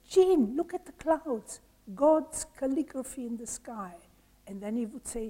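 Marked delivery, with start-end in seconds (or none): 0.1-4.0 sudden wonder. Acted. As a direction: call Jean to marvel at the clouds. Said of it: "suddenly he would look at the sky and say".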